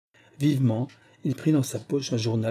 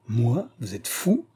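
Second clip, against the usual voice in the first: sharp, mildly raised outburst; a touch of real indignation; indignant cry; slower than usual. Acted. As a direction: throw the accusation back in disbelief. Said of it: "s'écria ... avec une indignation".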